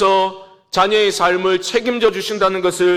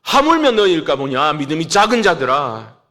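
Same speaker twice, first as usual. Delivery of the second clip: mild scolding; 2 semitones lower than usual. Acted. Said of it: "야단을 치시는 겁니다".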